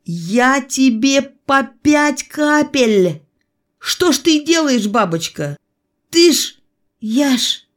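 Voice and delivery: high, choked, appalled reproach; strained, high horror breaking into fragments; strangled voice. A narrator's reading. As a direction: splutter as if being throttled. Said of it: "задушенным голосом заговорил я".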